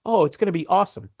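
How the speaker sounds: high, quick cheery reassurance; mock upbeat stewardess. Stewardess cheering up the nervous passenger, high and bubbly. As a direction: gush it like a bubbly flight attendant.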